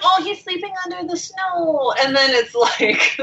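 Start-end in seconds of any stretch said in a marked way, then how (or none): 0.0-1.9 mock tender.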